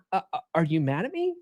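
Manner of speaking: a hammed-up anxious boyfriend pleading; mock insecure stammer. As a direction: stumble over it like a worried boyfriend. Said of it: "So you're like".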